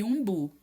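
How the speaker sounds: umbu with a strong final bu; emphatic umbu, weight at the end; stress on last syllable. Shown as a demonstration. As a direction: dictate umbu leaning on the bu. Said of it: "tem que ser a última sílaba mais forte".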